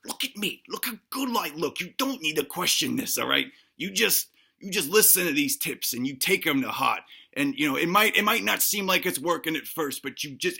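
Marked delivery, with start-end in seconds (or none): 0.0-7.0 indignant retort. Retold or imitated. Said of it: "I'm like".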